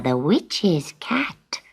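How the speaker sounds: soft whisper of the title. Acted. Sutika imagining people whispering about her, hushed. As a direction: breathe the words out in awe. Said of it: "people will say".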